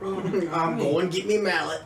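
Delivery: quoted line. Retold or imitated. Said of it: "my favorite useless quote".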